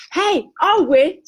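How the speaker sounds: mock parrot squawk. A narrator's reading. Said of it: "squawked the parrot".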